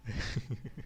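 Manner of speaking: quiet little laugh; soft chuckle. Real, not acted. Narrator laughs at hitting own desk, soft chuckle. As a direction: chuckle softly to yourself.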